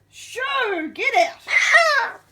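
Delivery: half-laughing demo of shooing; cheering the pet on with a giggly shoo. Shown as a demonstration. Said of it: "Say shoo".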